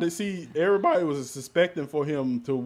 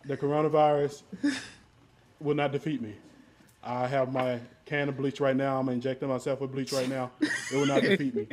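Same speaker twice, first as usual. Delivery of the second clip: lightly voiced defiant president; Donald Trump. Vowing the coronavirus will not defeat him, light Trump impression. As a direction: declare it firmly, lightly impersonating a politician at the podium. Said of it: "My Trump impression is great".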